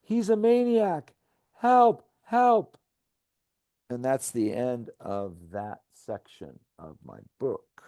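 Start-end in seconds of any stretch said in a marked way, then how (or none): 0.0-2.8 high, loud cries for help; panicked shouts for help; screaming. Retold or imitated. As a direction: scream it running from the car. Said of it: "running and screaming".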